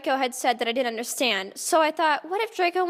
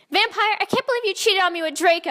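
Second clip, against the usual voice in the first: mock accusing shout; 6 semitones higher, 3 dB louder, faster than usual. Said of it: "I shouted at him".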